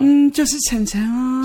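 put-on high, slow cutesy baby voice. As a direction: coo it like a spoiled little girl. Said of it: "哪有装娃娃音啊".

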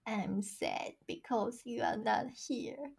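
very slow, soft, word-by-word reading; tiny pitiful voice with amusement underneath; mock sad child. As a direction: read a kid's sad little note haltingly. Reading child's sad note aloud.

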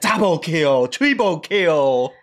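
slow, drawn-out mock announcer call; game announcer. Husband mimics the game audio his wife fell asleep to, slow mock announcer. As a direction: stretch each kill out like the game shouting it.

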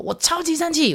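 put-on high child voice; imitating her son. Six-year-old telling mom how angry he is, high kid voice. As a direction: pipe it up high like a little kid. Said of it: "他要跟我说".

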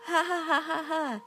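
high, slow mocking laugh. Linda laughing at the narrator's ghost story. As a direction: laugh it out at your friend. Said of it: "Linda menertawaiku".

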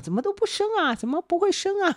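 high, pressing mother-in-law voice; nagging mother-in-law. Retold or imitated. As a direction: pester her about having a baby. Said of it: "婆婆还一直跟 国瑞讲".

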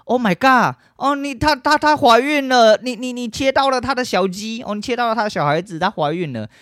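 mock horror, stammering up high; fake shock. Dad pretending to be shocked at the turkey, hammed-up high shock. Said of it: "他爸就假装惊讶说".

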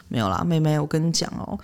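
low, soft secretive murmur; hushed whisper-like talk. Retold or imitated. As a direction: lean in and tell a secret softly. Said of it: "她就很小声的说".

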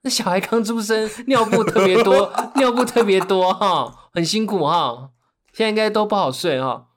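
put-on chatty neighbor in Taiwanese accent. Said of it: "他就说".

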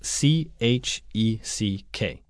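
letter by letter, slowly; spelling it out. Shown as a demonstration. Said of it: "Duncan帮我们拼一下".

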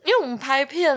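high strained voice on the verge of cracking; pushing up high, voice about to break. Real, not acted. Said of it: "我要破音了啦".

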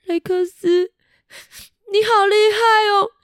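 thrilled little friend full of admiration; beaming praise. Acted. Buster beaming with praise at Rex. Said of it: "笑眯眯的对雷克斯说".

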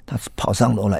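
ordinary delivery

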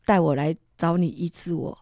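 begging God not to let her die, half-crying; tearful prayer. Retold or imitated. 向主耶稣祈求、哭着恳求别让她死. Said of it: "又哭了。".

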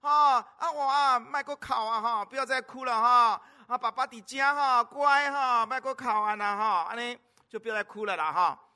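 loud, high granny coaxing in Taiwanese; loud, high cooing grandma soothing a baby; grandma coaxing child. Retold or imitated. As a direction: hush the crying toddler like a granny. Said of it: "跟那个小孩讲说".

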